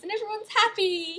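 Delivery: high, loud cheery announcement; cheerful triumph. Real, not acted. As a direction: sell the happy ending with delight. Triumphant ending, arms flailing.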